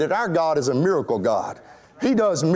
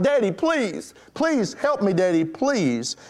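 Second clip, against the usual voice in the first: retold crying out; 3 semitones higher, slower than usual. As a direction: imitate a frightened girl pleading with her daddy. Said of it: "caused the girl to cry out".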